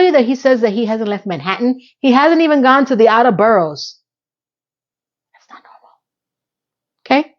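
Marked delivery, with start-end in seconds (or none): 5.3-7.3 slow, drawn-out stage whisper. Real, not acted. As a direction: confide it slowly in a hush. Aside to viewers.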